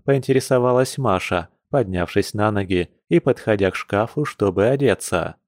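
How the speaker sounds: ordinary delivery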